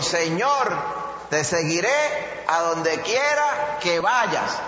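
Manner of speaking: slow called-out promise, quiera stretched; mock eager shout of a follower; retold shout. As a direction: call it out slowly like a man shouting from the road. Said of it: "le gritó y le dijo".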